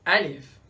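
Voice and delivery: Alif said with a clear falling tone; Arabic letter name. Shown as a demonstration. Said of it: "is written as".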